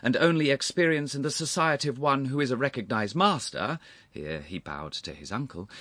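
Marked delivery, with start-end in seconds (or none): 0.0-3.8 high, animated, warm flattery; warm agreement. A narrator's reading. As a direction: flatter the uncle warmly, voice lifted. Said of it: "said the young man warmly".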